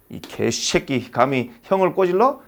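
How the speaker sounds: slow, mildly acted threat; a hint of a vengeful big brother, drawn out; menacing older brother. Older brother confronts the tattler once mom leaves, slow mock menace. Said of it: "엄마 없을 때 넌 뒤졌어".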